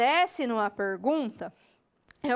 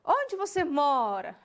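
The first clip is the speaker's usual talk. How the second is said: slow question with the weight on "mora"; stronger last word; slower than usual. Shown as a demonstration. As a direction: lean on "mora" at the end, drawn out. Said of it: "a última palavra sempre é mais forte".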